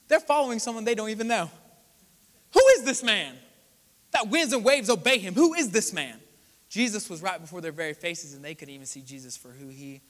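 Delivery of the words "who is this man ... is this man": loud, astonished cry of wonder; awed exclamation. Retold or imitated. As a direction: call it out in disbelief at the calmed storm. Disciples awed by calmed storm.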